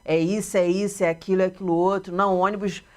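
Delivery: mock-curt Portuguese from Portugal; blunt Portuguese speaker. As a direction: state it flatly like a blunt Lisbon local. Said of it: "Eles sempre muito retos".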